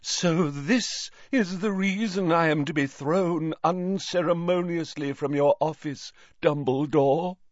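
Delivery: high-pitched, affronted professor; dramatic Trelawney. A narrator's reading. Trelawney protests being thrown from office, affronted. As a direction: declaim a grievance in a high voice.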